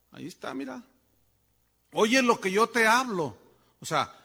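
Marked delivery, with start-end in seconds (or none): 1.9-3.4 emphatic scripture reading. Acted. Repeats God's command again.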